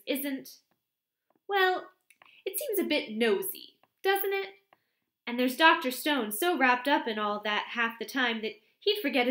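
bright chatter, eager to gossip; chatty young secretary. A narrator's reading. Miss Cram gossiping to the vicar's wife, lightly voiced.

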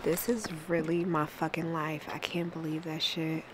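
hushed awed whisper to herself. Real, not acted. Vlogger whispering to herself about her life. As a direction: breathe it out in disbelief.

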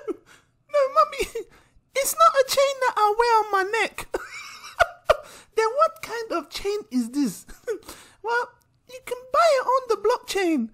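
put-on very high, giggly kid voice; a kid patiently explaining to mum; childish voice breaking into laughs. Child and mother voices alternate, skit.

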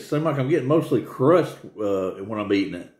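speaking between bites; talking while chewing. Real, not acted. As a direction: mouth partly full of pizza. Seen 4: Bites pizza from 2.7s on and keeps talking while eating.

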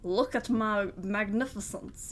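slow, grand self-showing voice; lightly mock a vain, luring thing; beckoning object. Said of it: "like it's telling me".

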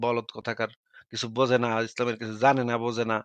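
low, soft muttered insult; dropped pitch, quiet and fed up; disgusted grumbling. Real, not acted. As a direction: grumble under your breath about a fool. Grumbling insults after being interrupted.

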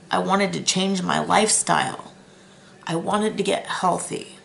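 holding back tears over her past; emotional. Real, not acted. Telling viewers about wanting health, emotional. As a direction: voice catching with real emotion. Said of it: "I'm so emotional talking about my past".

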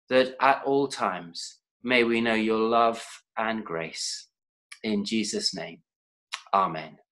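prayer. Real, not acted. Leads children in prayer.

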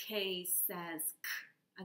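K says k, slow and clear; slow letter sound. Shown as a demonstration. Teacher modelling the K sound slowly. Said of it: "Do it with me".

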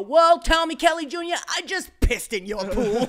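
high, loud comeback breaking into laughter; loud mock taunt. Retelling a comeback to the pool owner, loud laughing taunt. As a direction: crow it, slowing on the punchline.

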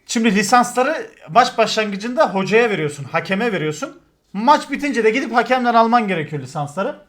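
ordinary talk

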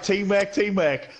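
teasing imitation, stretched out slowly; imitated team cheer. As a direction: lightly mimic a slow rallying call. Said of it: "Muffin shouting teamwork".

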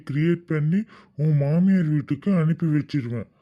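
menacing threat. Acted. Blackmailer threatening on phone.

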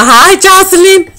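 put-on high, slow sing-song little-girl hello; little girl greeting. The girl in the back seat greets her, high and slow. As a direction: draw the name out sweetly like a kid.

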